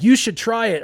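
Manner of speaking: high, loud egging-on; goading older boys. Acted. Older boys goad the little kid, high and taunting. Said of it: "'cause they're like".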